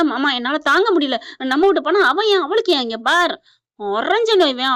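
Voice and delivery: a hammed-up tirade at her uncle-husband; mock angry outburst. Wife confronts husband over the car, mock anger. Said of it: "கோவம் வருது".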